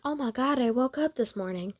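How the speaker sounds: softly amazed; quiet wonder at waking up; mild surprise. Acted. First, contained take of waking surprise.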